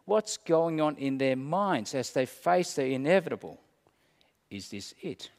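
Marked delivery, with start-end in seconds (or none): 4.5-5.3 breathy hushed whisper. Pretend. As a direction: whisper it like a frightened dying man. Imagined dying resident whispering.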